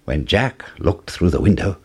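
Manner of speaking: usual speaking voice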